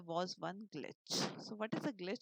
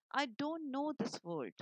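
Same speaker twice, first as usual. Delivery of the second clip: mild squeak; 4 semitones higher, 4 dB louder, slower than usual. Acted. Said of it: "elf squeaked".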